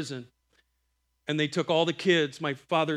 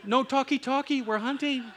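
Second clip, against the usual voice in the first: higher, laughing through it; scolding the wife with a laugh; 8 semitones higher than usual. Retold or imitated. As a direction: giggle the rule out. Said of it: "I'm like".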